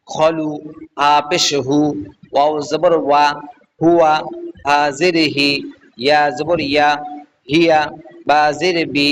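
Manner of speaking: measured, evenly chanted spelling, then the joined word; syllable-joining drill. Shown as a demonstration. Teacher showing learners how syllables join, measured recitation drill.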